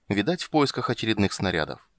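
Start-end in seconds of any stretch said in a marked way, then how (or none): none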